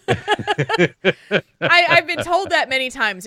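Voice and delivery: embarrassed giggly reply; laughing while talking. Real, not acted. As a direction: push the words out through giggles.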